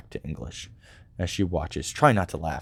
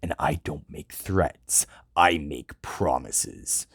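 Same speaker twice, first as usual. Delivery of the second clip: deadly tone; much slower than usual. Acted. Krieg threatens the soldier in a slow deadly tone. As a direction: promise it coldly, slowly. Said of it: "a deadly tone".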